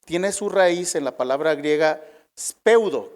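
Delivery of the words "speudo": speudo, higher on the stressed U. Shown as a demonstration. Preacher giving the Greek root word, speudo stressed on the U. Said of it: "con acento en la U".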